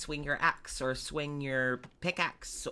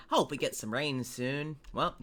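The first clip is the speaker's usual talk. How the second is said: southern twang. Acted. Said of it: "I accidentally held on to that twang for him".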